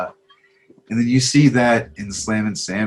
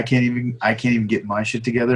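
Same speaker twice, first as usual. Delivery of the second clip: plain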